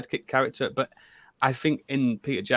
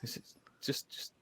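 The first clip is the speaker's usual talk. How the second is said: imitated halting, barely voiced stammer, rising into a laughing question; Sam's hesitant mumble; 13 dB quieter than usual. Fan acting out Sam receiving the rope, mock hesitant. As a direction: falter very softly, then let the voice come back amused. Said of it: "And he's like".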